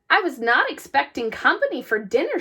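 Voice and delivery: mumbled through a mouthful, fast; mouth full. Acted. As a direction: talk while chewing meatballs. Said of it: "she mumbled with a mouthful of meatballs".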